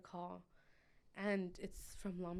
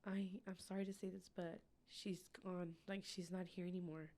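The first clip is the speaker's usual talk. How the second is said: gentle bad news; 6 dB quieter than usual. Doctor telling the mother, soft and somber. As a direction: break it to her gently.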